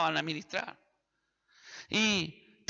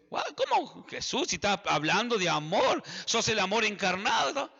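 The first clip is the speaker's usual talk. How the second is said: mock astonishment. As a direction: act out a baffled listener questioning. Acts out listeners' shocked reply to Jesus.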